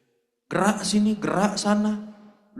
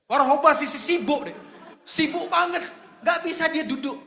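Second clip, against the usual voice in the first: mocking Martha; 7 semitones higher than usual.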